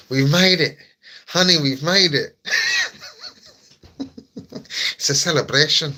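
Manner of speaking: loud, high triumphant cry; celebratory shout. Real, not acted. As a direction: crow about the gift like a win.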